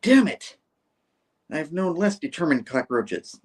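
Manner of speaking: mock annoyed. Annoyed doctor complaining about the cameraman, acted exasperation. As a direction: burst out in hammed-up exasperation, then slow down. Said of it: "the doctor's all annoyed".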